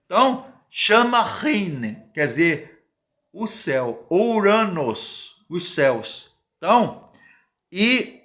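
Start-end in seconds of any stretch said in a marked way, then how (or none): 1.2-2.0 "Rine" drawn out slowly; "Rine" as a pronunciation example; careful foreign pronunciation. Shown as a demonstration. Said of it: "é a pronúncia". 4.1-5.4 "Ouranos" stretched slowly, syllable by syllable; "Ouranos" drawn out as a pronunciation example; careful Greek pronunciation. Shown as a demonstration. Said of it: "é a pronúncia".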